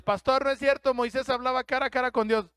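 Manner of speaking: quick challenge from a churchgoer; objecting listener. Pretend. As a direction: play the doubter cutting in. Imagined listener objects to preacher.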